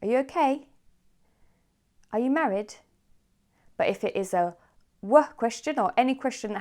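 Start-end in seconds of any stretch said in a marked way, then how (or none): 0.0-0.7 "okay" lifted high at the end; rising question tune. Shown as a demonstration. Teacher recaps yes-no questions, rising on "okay". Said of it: "we go up at the end". 2.1-2.7 "married" pitched up to close; rising question tune. Shown as a demonstration. Teacher recaps yes-no questions, rising on "married". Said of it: "we go up at the end".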